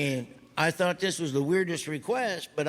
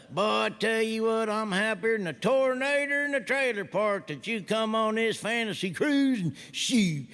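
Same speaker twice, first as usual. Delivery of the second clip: Mater voice; 4 semitones higher than usual. Shown as a demonstration. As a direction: keep the cheerful hick tow truck going. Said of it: "This is what it sounded like".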